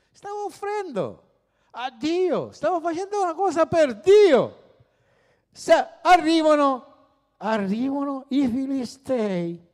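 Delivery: high and rising, arrivano i filistei pushed out; excited storytelling. Acted. Preacher dramatizing the Philistine attack for the congregation, excited and high. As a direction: tell it like the enemy is at the door.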